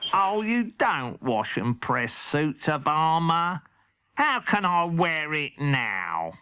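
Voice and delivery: slow exasperated cat voice; a cat scolding his servant; Henry's cat. Acted. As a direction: moan it, dragging the words. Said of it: "said Henry's cat".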